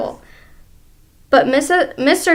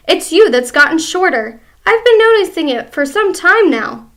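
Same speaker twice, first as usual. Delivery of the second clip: gloating husband; 5 semitones higher, 7 dB louder than usual. Acted. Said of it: "grinning horribly".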